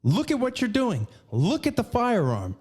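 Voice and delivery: mildly imitated stern instructor; stern telling-off. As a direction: drill the safety checks into a careless friend. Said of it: "got on my ass about it".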